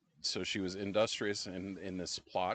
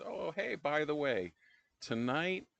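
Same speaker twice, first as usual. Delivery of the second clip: chirpy Naomi; 4 semitones higher, 4 dB louder than usual. Retold or imitated. Naomi voiced in retelling.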